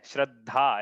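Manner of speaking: श्रद्धा split as shrad, then dhaa; demonstrated word division. Shown as a demonstration. Teacher showing how the word is built, split श्रद्धा. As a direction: divide श्रद्धा after the half d. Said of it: "ऐसा है ना कि".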